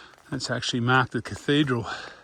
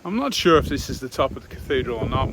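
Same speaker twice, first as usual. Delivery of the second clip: raised voice against the wind; shouting over wind; 4 dB louder than usual. Real, not acted. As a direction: speak up over gusts. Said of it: "if you hear me over the wind".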